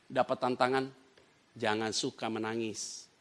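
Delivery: solemn exhortation. Real, not acted. Preacher urging believers not to borrow money, solemn exhortation. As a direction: counsel the congregation gravely.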